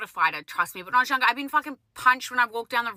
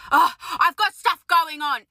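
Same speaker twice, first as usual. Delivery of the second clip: nasty attitude; 4 semitones higher, 4 dB louder, slower than usual. Retold or imitated. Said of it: "She was so nasty".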